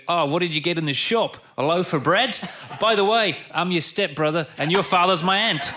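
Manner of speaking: put-on light Essex accent, chatty gossip; lightly put-on Essex twang, loud and chatty. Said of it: "compliment you on your Essex accent".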